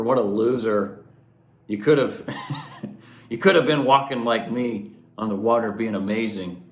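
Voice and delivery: mock harsh judge jeering at a sinking man; grumpy grandpa God. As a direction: berate a failure like a mean old grandpa. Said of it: "grumpy grandpa God, you know".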